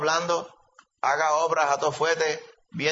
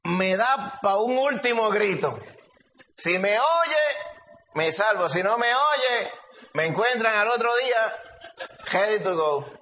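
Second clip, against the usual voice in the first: the trapped cat; 5 semitones higher than usual. Retold or imitated. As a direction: plead as the stuck cat, hammed-up. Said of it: "El gato dijo".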